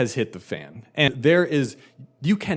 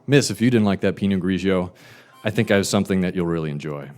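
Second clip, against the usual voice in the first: smooth salesman; 6 semitones lower, faster than usual. Retold or imitated. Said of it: "So I said".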